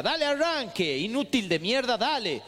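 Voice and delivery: father giving a driving lesson, impatient; gruff father. Retold or imitated. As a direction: rush the nervous son. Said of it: "mi viejo arranca las clases".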